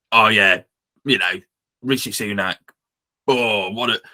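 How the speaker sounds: badly faked Cockney accent, barely shifted; a weak stab at Alan Sugar's Cockney. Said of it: "I know he's Cockney, but that's terrible".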